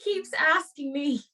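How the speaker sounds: careful put-on Irish reading; Irish accent. Host carries on reading the dilemma, put-on Irish accent. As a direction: read on in a playful Irish lilt. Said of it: "Yeah, do an Irish one".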